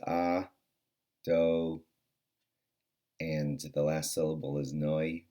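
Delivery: careful demo of each syllable. Shown as a demonstration. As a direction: spell out "ah, do, noi" one syllable at a time. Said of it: "those three syllables, the way I just said them".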